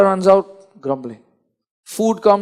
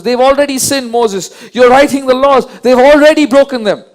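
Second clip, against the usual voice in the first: raised, louder voice of an angry God; God's angry rebuke; 4 semitones higher, 5 dB louder than usual. Retold or imitated. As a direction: thunder it out as God scolding Moses. God angry at the sinning people.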